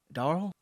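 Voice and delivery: Darl tried with a rising questioning tune. Shown as a demonstration. Host trying the new word, testing Darl.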